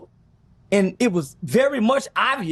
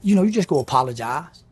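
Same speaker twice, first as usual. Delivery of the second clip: much lower, heavy voice of a big muscular man, lightly done; big dude's voice; 8 semitones lower than usual. Retold or imitated. Big muscular dude pushing him to make an apology video, in a low imitating voice. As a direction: lean in low like the big guy pressing you. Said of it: "He said".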